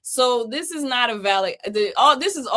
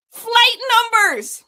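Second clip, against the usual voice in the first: much higher and louder, slow incredulous cry of Flight numbers!; exclaimed in disbelief; 13 semitones higher, 8 dB louder, slower than usual. Real, not acted. Streamer exclaiming to chat about the scam contract, loud and high in disbelief.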